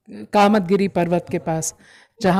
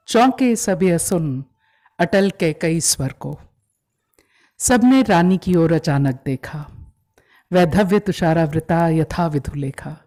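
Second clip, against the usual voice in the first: measured, declaimed Hindi verse with pauses between lines; poetry recitation; 4 dB louder than usual. Acted. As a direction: recite it as a dramatic narrative poem. Recites a poem by heart. (भावपूर्ण काव्य-पाठ)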